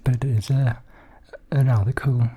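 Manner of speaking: unpractised attempt at a Welsh accent. Shown as a demonstration. Praising the subscriber's accent while attempting the Welsh accent. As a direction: try out a rough Welsh accent. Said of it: "I haven't really practiced Welsh".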